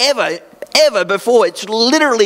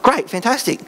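mock cheerful; 5 semitones higher than usual. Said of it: "I'm like".

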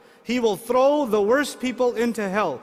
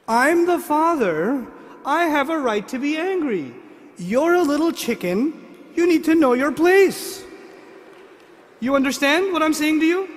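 mock stern father; 3 semitones higher than usual. Father mock-scolding daughter.

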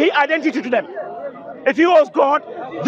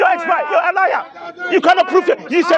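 higher-pitched, indignant accusing; real argumentative heat; heated accusation; 4 semitones higher than usual. Real, not acted. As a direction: accuse the other debater in a live quarrel. Accuses opponent during heated argument.

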